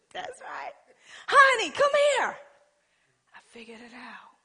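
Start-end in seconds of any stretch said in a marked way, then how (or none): 1.3-2.4 much higher, louder sugary "honey"; sweet call to husband. Retold or imitated. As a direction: coax the husband over. Calling husband sweetly, retold.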